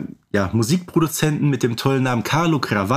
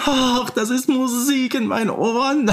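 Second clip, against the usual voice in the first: much higher, melting with delight at the song; swooning music producer; 11 semitones higher than usual. Retold or imitated. Producer raving about the girl's song, high and swooning. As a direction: gush over it like a smitten producer. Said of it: "der schmilzt da vor sich hin".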